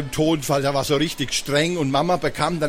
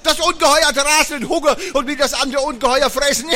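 monster voice; 8 semitones higher than usual. Acted. The speaker playing a hungry monster.

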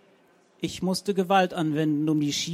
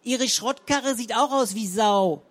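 higher, louder crude jab; insulting; 6 semitones higher, 5 dB louder than usual. A narrator's reading. Frau Zenker insults the neighbour's car, loud and high. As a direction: follow up with a nasty jab. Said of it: "setzte die Zenker nach".

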